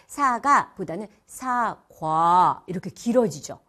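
사가 clipped, then 사과 stretched with a full glide; 사과 drawn out slowly, 과 lengthened; slow diphthong demo. Shown as a demonstration. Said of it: "입 모양이 바뀌는 시간이 좀 더 걸려요".

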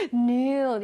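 "noon" pushed from the belly, long vowel; forceful from the belly. Shown as a demonstration. Teacher shows how noon pops out, forceful long vowel. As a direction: push out "noon" with air. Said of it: "힘을 줘서 배에서".

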